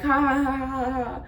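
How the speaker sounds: mock laugh. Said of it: "And he's just laughing".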